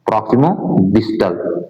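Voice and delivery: प्रॉक्सिमो डिस्टल said slowly, each word spelled out; drawn-out, careful term for students to copy; slow clear repeat. Shown as a demonstration. Teacher repeating the English term slowly so students catch it. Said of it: "इसको अंग्रेजी में क्या बोलो".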